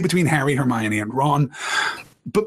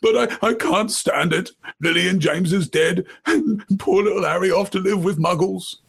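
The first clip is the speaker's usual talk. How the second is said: Hagrid's voice; 4 semitones higher than usual. A narrator's reading. Hagrid voiced crying in story.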